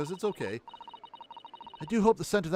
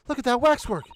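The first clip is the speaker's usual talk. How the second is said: higher and louder, pointing it out; excited exclaim; 9 semitones higher, 8 dB louder than usual. Acted. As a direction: cry out look at that waxwork. Character exclaims at waxwork.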